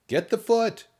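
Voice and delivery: high, loud shouted command; yelled. A narrator's reading. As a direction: yell it across the field. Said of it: "Fat Zombie's friends yelled".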